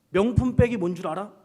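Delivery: teasing quiz. Retold or imitated. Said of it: "제가 했던 얘기가 이거".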